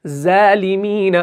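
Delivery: ज़ालिमीन with a thin, light Z instead of the heavy sound, slowly; thin wrong reading. Shown as a demonstration. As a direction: demonstrate ज़ालिमीन read thin, as the mistake. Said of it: "अगर हम इसको बारीक पढ़ने लगे".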